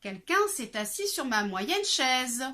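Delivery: moderately loud bear voice; a middling-sized bear, annoyed; lightly voiced mama bear; middle bear voice. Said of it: "dit de sa moyenne voix".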